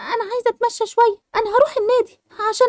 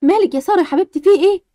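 alarmed mother; 4 semitones lower, 4 dB louder than usual. Acted. Mother hearing Sara cry out, worried lower voice. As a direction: lower mum voice, worried and a bit louder.

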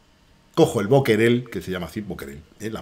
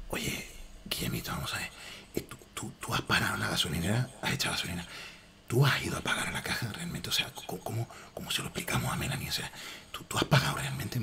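whispered husky movie-star voice, much softer; Banderas whisper; 3 semitones lower, 14 dB quieter than usual. Retold or imitated. Mocking himself with a whispered, softer Banderas voice. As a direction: breathe each question like a confidential secret. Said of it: "Así".

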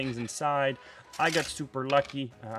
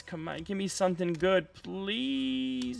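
pleading; 5 semitones higher, slower than usual. Real, not acted. Pleading for a good card.

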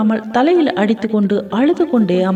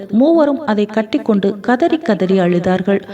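ordinary delivery

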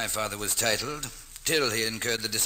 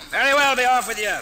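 fast, loud, high dismissal; dismissive shout; 12 semitones higher, 9 dB louder, faster than usual. Acted. Miles sending the ruffians away, loud dismissal. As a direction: shoo them off.

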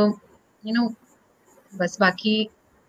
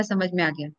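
meek reply; 6 semitones lower, 9 dB quieter than usual. Retold or imitated.

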